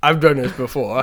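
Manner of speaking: lightly imitating a defensive uncle; a hint of a defensive uncle; mocking uncle. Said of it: "He was like".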